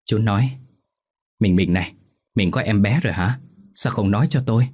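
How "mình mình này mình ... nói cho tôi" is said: excited questioning. Acted. Husband learns wife is pregnant.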